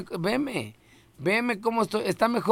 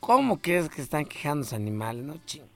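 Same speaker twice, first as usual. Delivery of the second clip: put-on drunk voice; 2 semitones lower, 4 dB quieter than usual. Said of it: "yo la voz de borracho".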